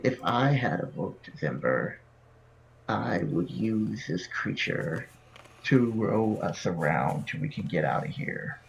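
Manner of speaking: slow, creaky vulture rasp; squeaky vulture voice. Acted. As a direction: croak it out like a vulture. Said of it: "squeaky, like, vulture-like voice".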